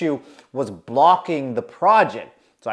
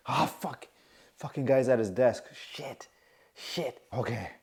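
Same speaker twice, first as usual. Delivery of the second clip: under-the-breath curses, much softer; muttered curse; 3 semitones lower, 9 dB quieter than usual. Retold or imitated. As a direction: swear to yourself so nobody hears. Dreading manager at desk.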